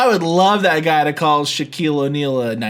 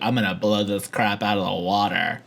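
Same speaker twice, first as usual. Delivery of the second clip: low menacing threat; 10 semitones lower, 6 dB quieter than usual. Retold or imitated. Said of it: "he's gonna be like".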